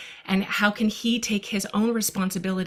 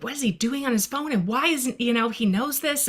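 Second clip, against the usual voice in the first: quick, higher-pitched retold exasperation; a mother catching her son on his phone after screen time; upset disbelief; 5 semitones higher than usual. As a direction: rattle it off half-mocking your own worry. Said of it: "I was upset".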